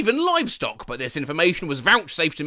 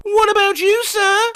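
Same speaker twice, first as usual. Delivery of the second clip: high, louder prim voice; overly polite man; 13 semitones higher, 6 dB louder than usual. Retold or imitated. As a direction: press politely again. Same polite man asks again.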